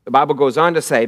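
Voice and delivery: ordinary delivery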